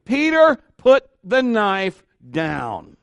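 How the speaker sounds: high, sharp name, then slow drawn-out order; exasperated, stretched-out warning; exasperated command. Acted. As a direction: rein in an unruly friend, word by word. Acted Jesus reining in Peter.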